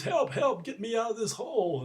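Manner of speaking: high, urgent storyteller's cry for help; retold yell for help. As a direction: act out calling up from a hole. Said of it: "he's yelling".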